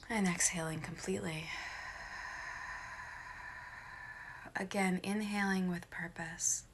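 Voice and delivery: soft, unhurried meditation voice with long pauses; guided meditation. Acted. Meditation leader talking listeners through breathing, lightly hushed guided meditation. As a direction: guide them gently through each breath.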